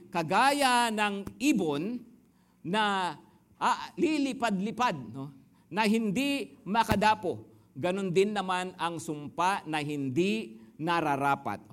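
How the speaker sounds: slow, measured verse reading; scripture reading. Acted. Preacher reads Proverbs to the congregation, slow and measured. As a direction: read the proverb slowly to the flock.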